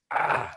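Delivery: drawn-out exasperated "ah", mimicked; mock frustrated groan at a mishap; upset groan. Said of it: "really, really upset".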